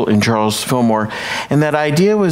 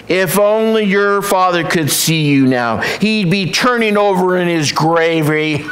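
mother turkey voice; 5 semitones higher than usual. Acted.

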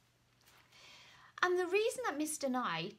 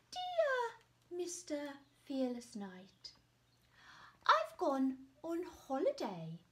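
higher, lilting dragon voice; dragon's letter voice; 5 semitones higher, 3 dB louder than usual. Acted. Dragon writing to the knight, cheerful higher voice. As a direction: read the note as a cheerful dragon.

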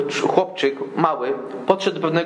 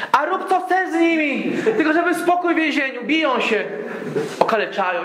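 much higher, exasperated outburst; fed up, throw your hands up; exasperated guards; 12 semitones higher than usual. Retold or imitated. Desperate guards beg prisoner.

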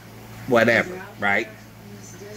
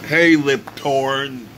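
drawn-out, higher mock taunt; teasing taunt; 4 semitones higher, 4 dB louder, slower than usual. Summer camp kids making fun of his name, slow mock taunt. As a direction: call it out slowly like teasing kids. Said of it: "were making fun of my name".

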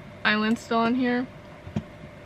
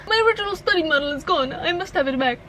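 higher, hammed-up attempt at a French accent; failed French accent; 5 semitones higher, faster than usual. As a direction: plead in a wobbly French accent. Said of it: "don't think I'm doing a French accent".

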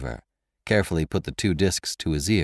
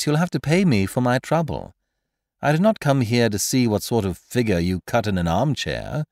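lightly raised, mocking gentleman thief; Lupin's voice; 4 semitones higher than usual. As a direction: needle the prisoner with sly amusement. Lupin taunting his prisoner.

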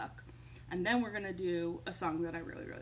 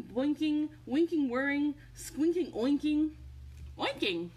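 mock-stern parent, building louder; exasperated parent; 8 semitones higher, 4 dB louder than usual. Parent telling noisy robots to stop, building mock scold.

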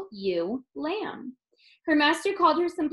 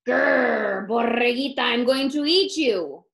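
louder, growling menace; growling coyote; 5 dB louder than usual. Acted. Coyote threatening the little lamb, growling. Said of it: "The coyote growled".

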